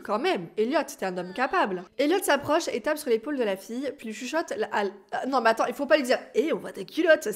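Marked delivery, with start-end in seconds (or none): 6.4-7.3 mock blunt whisper. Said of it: "c'est un peu bizarre ça".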